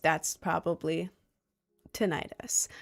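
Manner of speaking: hushed whispered aside; whispering. Acted. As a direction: whisper the word like a secret. Aside deflating ghost story.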